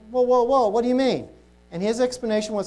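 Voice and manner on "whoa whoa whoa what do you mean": higher, louder retold double take; startled objection, retold; taken aback. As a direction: act out stopping someone in disbelief. Retelling shocked reply to friend's claim.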